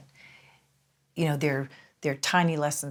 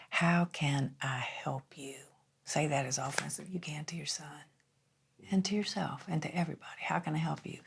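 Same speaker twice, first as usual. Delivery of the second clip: soft, hushed Southern drawl; 7 dB quieter than usual. Retold or imitated. Mentor teaching a mother the first phrase, Southern drawl. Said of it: "in his Southern drawl".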